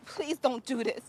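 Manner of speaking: tearful begging; crying. Acted. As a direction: beg through tears. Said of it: "Why are you crying".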